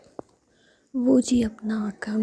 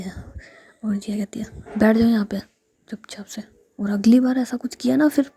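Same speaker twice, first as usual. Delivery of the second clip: whispered scolding that rises and gets louder; angry scolding; 4 dB louder than usual. Acted. Jiya scolds the two pranksters in a whispered rage. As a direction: tell them off like a fed-up older sister. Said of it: "गुस्से से".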